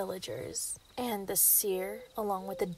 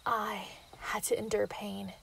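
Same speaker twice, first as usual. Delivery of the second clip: gloating werewolf lover explaining herself; menacing villain confession; 2 semitones lower than usual. Acted. Villain confessing to the hunter, hushed and menacing.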